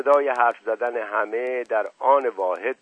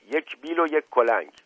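firm, raised-pitch order; commanding tone; 4 semitones higher, 3 dB louder than usual. Acted. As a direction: issue a brisk official order. (با لحن آمرانه)

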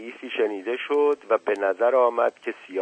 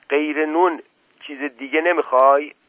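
high, moderately raised question; shouting; 6 semitones higher, 4 dB louder than usual. A narrator's reading. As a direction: call out a probing question. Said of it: "زکریا داد زد". (با داد ملایم)

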